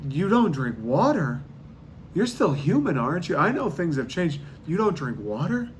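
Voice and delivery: put-on an old-timer overwhelmed and baffled; Ben Franklin pleading. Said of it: "Ben Franklin would be like".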